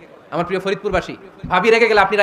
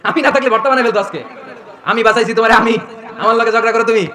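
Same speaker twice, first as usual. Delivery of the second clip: loud, raised mock reproach; teasing boast; 3 semitones higher, 5 dB louder than usual. Husband telling wife he saved her, teasing loud reproach. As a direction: boast as the rescuer, loudly.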